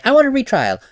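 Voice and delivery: a mocking, loud demand. Shown as a demonstration. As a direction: insist like a petulant litigant. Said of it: "You can't just say".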